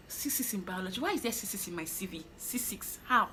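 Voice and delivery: inner panic. Retold or imitated. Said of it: "in my head, I was like".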